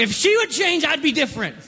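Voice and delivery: defensive blame-shifting. Acted. Husband blames his wife when questioned, acted defensive protest. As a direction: push back like an aggrieved husband.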